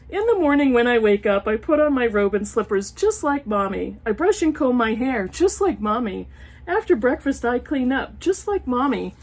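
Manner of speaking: sing-song picture book reading; reading to children. Acted. Reading an old picture book aloud to her viewers, storytime voice. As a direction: read it like a storytime page.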